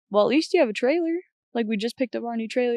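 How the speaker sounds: upbeat dad cheering his stuck daughter; imitating her dad. Dad on the phone reassuring his daughter, lightly imitated.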